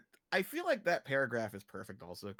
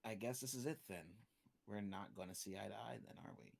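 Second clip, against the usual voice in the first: quiet, resigned somber delivery; 8 dB quieter than usual. Acted. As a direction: say it softly, with heavy finality. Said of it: "a somber way".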